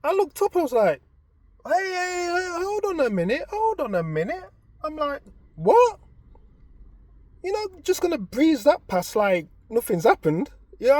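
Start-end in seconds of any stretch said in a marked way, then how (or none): 1.7-6.0 high, loud disbelieving hey hey; shocked outburst. Retold or imitated. Husband cutting in on his wife, high loud shocked protest. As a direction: stop them mid-sentence, higher and louder.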